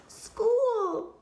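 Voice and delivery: high, loud joyful cheer; excited cheer. Acted. Eager girl cheers on her first school day. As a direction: burst out with glee.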